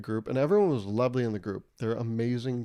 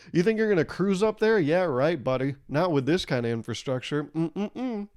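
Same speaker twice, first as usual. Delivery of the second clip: higher mock scoffing at the plane; smug passenger; 4 semitones higher than usual. Comic mocking passenger scoffing at the plane's infrastructure. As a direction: scoff like a know-it-all.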